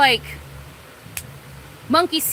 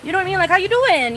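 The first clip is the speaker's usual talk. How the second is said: high, bright, eager hello to a campus friend; bubbly greeting; 8 semitones higher, 3 dB louder than usual. Pretend. Greeting a classmate seen again on campus, excited and high. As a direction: squeal a friendly catch-up. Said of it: "be like".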